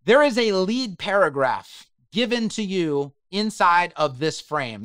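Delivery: slowed-down, careful explaining; slow and deliberate. Real, not acted. Tutor slowing down to explain a lead paragraph, slow and deliberate. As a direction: take it slowly so they can follow. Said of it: "I'll go slow here".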